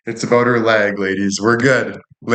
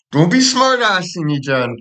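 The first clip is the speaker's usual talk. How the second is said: much higher, squeaky mock scold, stretched out; put-on scolding voice; 8 semitones higher than usual. Shown as a demonstration. Streamer scolding a chatter in a put-on squeaky voice. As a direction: play a shrill little nag telling her off. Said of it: "when I talk with this".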